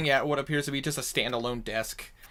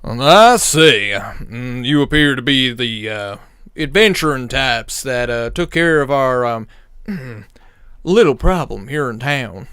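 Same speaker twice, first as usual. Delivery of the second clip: big mob boss; 12 dB louder than usual. Acted. Goliath mob boss speaks.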